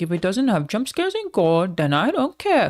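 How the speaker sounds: exaggerated, drawn-out teen disdain; teenage edgelord. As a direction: mimic your dismissive teenage self. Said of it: "a little edgelord, so I was like".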